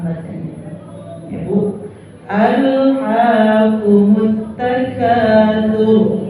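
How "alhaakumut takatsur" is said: slow chanted "takatsur" with a heavy r; thick final r. Shown as a demonstration. Teacher modelling the verse, slow chant with tafkhim.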